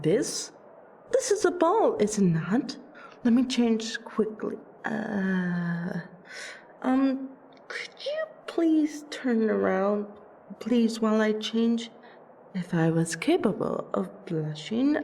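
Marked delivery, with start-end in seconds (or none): 3.2-11.9 embarrassed vampire asking for privacy. Acted. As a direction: stumble into an awkward, self-conscious plea. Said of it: "you are embarrassed".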